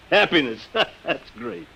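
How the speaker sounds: scoffing laugh around the word; a sour, disbelieving chuckle; bitter laugh. Acted. Bitter at humanoids' happiness.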